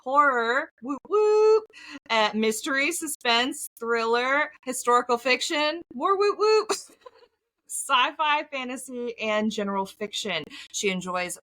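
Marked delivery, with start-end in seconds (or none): 0.8-1.6 high, loud playful cheer; whoop whoop cheer. Real, not acted. Cheering for favourite genre. 5.9-7.7 high, loud playful cheer; whoop whoop cheer. Real, not acted. Cheering for favourite genre.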